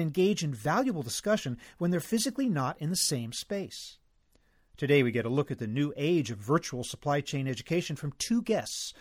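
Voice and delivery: measured scripted host introduction with lively emphasis; podcast intro read. Acted. Host introducing today's guests to listeners, scripted intro read. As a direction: present the topic and guests in a polished read.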